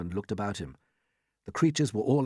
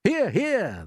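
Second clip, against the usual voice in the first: cheering agreement; 10 semitones higher than usual. Acted. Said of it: "they all shouted".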